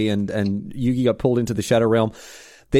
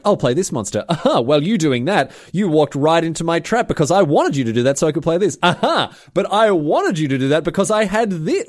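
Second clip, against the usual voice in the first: gloating duelist; 5 semitones higher than usual. Retold or imitated.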